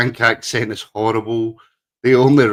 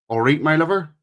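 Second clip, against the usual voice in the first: Gloucester greeting; 6 semitones higher than usual. Retold or imitated. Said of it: "'cause that's what they say down there".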